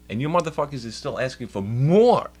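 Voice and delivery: furious at the system, voice climbing; retold anger. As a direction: let the frustration boil over. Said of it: "I almost fucking lost it".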